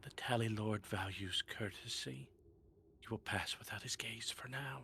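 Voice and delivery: soft, very quiet whispered spirit voice. A game narrator voices a floating spirit leaning down to a player: whispering. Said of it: "and whispers".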